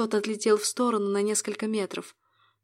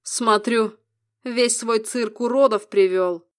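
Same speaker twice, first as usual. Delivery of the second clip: louder, slow, sneering contempt; malicious sneer; 5 dB louder, slower than usual. A narrator's reading. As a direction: spit out the mockery slowly. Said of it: "Нибирос злобно усмехнулся". (злобная усмешка)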